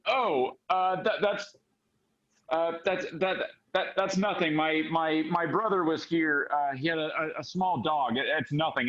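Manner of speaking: stammering, mildly flustered excuse; flustered cover-up. Acted. Caught out explaining away fur on the table, mildly flustered. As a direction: brush it off with false starts and repeats.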